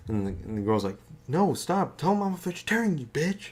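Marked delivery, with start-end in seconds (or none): 1.3-3.5 high, rushed protest; squealing annoyed plea; high frantic plea. Retold or imitated. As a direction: beg your sister to stop. Girl pleading with sister.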